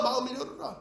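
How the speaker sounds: 마음을 열어라 said gently, fading; soft echo. Acted. Preacher voices God's plea, then repeats.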